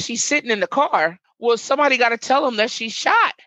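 shocked that nobody has told them; alarmed disbelief. Retold or imitated. Hears the shot girl left in car.

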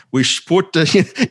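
slow, lightly hammed-up Dutch accent; mock Dutch accent. Co-host imitating the odd man on TV, mock Dutch accent. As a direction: lean into a silly made-up Dutch accent. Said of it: "that accent like that".

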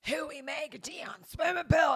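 slow, high, loud teacher yell; mock the teacher screaming at her; a loud, slow mocking shout of the teacher; retold scream. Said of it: "screamed at me in front of everybody".

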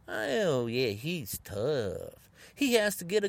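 slow, drawn-out mock admiration; sarcastic. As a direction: pretend to be impressed, dragging it out. Sarcasm about their leader.

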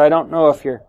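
distant, calling from next room; from another room. Real, not acted. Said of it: "I'm in the other room".

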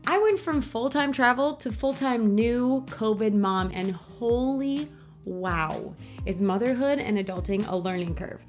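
upbeat, scripted welcome to listeners; polished podcast host opener; podcast intro read. Acted. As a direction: read the show intro with lift.

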